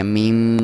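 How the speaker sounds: "میم" with a held final m; held meem sound. Shown as a demonstration. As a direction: hum the m closing "میم". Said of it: "میم کی sound".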